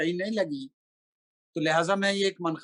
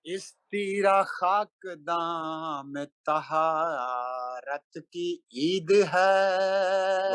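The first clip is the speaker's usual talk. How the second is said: slow melodic chanted Urdu verse; stately nazm recitation; much slower than usual. Acted. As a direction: intone each line like a mushaira poet. Recites a manqabat at a gathering.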